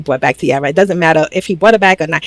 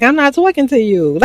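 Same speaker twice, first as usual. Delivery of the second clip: mock snapping; 7 semitones higher than usual. Heated argument, Sincere.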